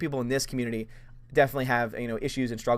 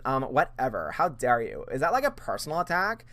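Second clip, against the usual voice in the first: put-on valley girl. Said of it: "my impression of Brie Larson".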